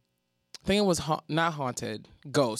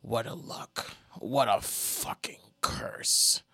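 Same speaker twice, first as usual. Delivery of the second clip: hushed, slow whisper; whispered quote; 6 semitones lower, 3 dB quieter, much slower than usual. Retold or imitated. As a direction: breathe it out in a whisper. Quoting a singer's tub line.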